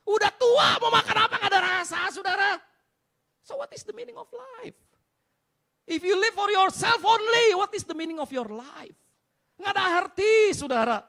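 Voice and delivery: loud, high, drawn-out sermon cry; impassioned shouted preaching; full-force preaching. Real, not acted. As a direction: hammer it out to the whole congregation.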